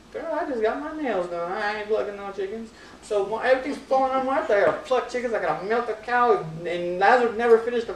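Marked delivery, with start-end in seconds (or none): 0.1-2.7 lightly voiced sassy diva, a bit higher. Mary brushing off her sister's chore, sassy diva voice. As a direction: brush it off like a diva who just got her nails done. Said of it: "She's like a little diva".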